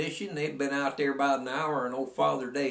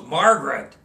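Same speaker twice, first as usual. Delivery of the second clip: shocked outcry; 8 dB louder than usual. Retold or imitated. Sue shocked by Margaret's word.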